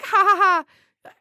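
drawn out mock ha ha ha; spelling out a dry ha ha ha; slow fake laugh. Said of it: "I'm like".

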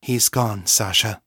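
understated consolation; gentle. A narrator's reading. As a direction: break bad news gently. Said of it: "Fiona said gently".

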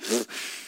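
imitating mom's gasping sob; a quick unvoiced crying gasp; mock snotty crying gasp; mock sobbing gasp. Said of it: "snotty crying".

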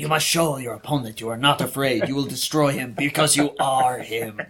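deliberate mock guru counsel with a Spanish accent; Jodorowsky's Spanish accent. Podcaster coaching an imaginary lawyer, in a Spanish accent. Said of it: "we're gonna do the accent".

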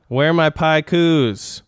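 slow, drawn-out title announcement; segment title. Acted. Host introducing the new segment title slowly. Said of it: "this new segment is called".

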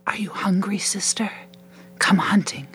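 voiceless, hushed and luring invitation; whispered. A narrator's reading. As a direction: whisper it like a tempting secret. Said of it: "A whisper".

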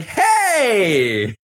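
mock Cirie scolding. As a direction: play Cirie shouting at Felicia to stop. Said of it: "Cirie's been like".

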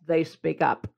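through a toy megaphone; megaphone effect. Shown as a demonstration. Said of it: "a megaphone effect here".

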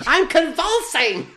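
very high, drawn-out strained cry; hammed-up convulsing voice; mock convulsing. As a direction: squeeze it out high, as if seized. Mocking the speaker's strained telling.

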